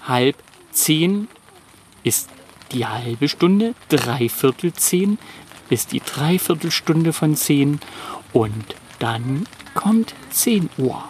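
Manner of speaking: slow, careful teacher tone; slow explaining. Shown as a demonstration. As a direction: spell out the time slowly. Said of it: "kleine Uhrenkunde".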